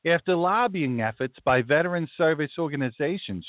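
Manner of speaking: high, put-on Brooklyn Jewish accent. Explaining veterans' lobbying to Sean, in a Brooklyn Jewish accent. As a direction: lift the pitch and go full Brooklyn Jewish. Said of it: "this is the accent that I think in".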